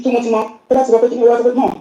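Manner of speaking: normal talking voice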